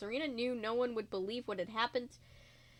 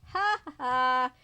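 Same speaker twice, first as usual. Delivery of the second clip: obnoxious laugh; 6 dB louder, slower than usual. Acted. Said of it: "laughing his loud, obnoxious laugh".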